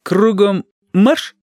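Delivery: slow, drawn-out drill command. A narrator's reading. The rescuer orders the young thugs away like a slow drill command. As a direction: give the order like a sergeant. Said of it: "негромко скомандовал".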